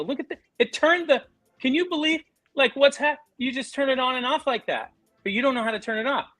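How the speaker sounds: high, exaggerated wonder at a light switch; mock amazed dad. Father to son, overacted awe at a switch. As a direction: ham up the amazement for the kid.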